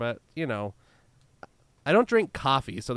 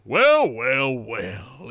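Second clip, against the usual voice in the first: smooth villain voice; 8 dB louder, much slower than usual. Retold or imitated. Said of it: "just kinda deeper 'cause it's".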